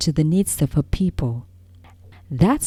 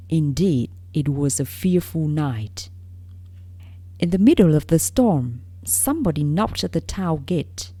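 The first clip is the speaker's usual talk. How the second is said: story narration. A narrator's reading. Narrator reading a fairy tale to young listeners, storybook narration. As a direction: read it like a bedtime fairy tale.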